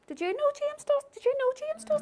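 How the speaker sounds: very high-pitched acted astonishment; astonished. Congregant telling the others about James, astonished. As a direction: pass on startling news in a high mock voice.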